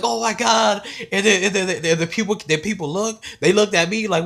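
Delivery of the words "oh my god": high, loud onlooker's exclamation; hammed-up shout of alarm; mock alarmed cry. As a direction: imitate a shocked crowd, amused.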